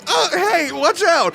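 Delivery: Cabana Tropicana's high-pitched "watch out"; a bar regular squeaking a warning; high warning cry. Acted. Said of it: "Cabana Tropicana goes".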